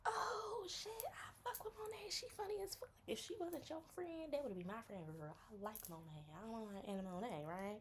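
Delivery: very high gushing; gushing friend. Retold or imitated. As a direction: gush about her up high. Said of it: "you like".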